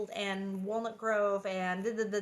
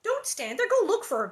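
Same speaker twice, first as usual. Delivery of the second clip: put-on loud, higher shout at the girl; 5 semitones higher, 7 dB louder than usual. A narrator's reading. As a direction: yell urgently for the child. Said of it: "Pa shouted".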